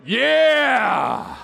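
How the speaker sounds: mock cheer. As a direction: stretch it into a big retold shout. Retelling his sleep-talk cheer.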